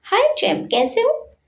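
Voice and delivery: put-on bright smiling hello to a child; fond uncle smiling into the phone; smiling greeting. A narrator's reading. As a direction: greet the boy with a smile, pitch lifted. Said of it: "मुस्कुराते हुए बोला".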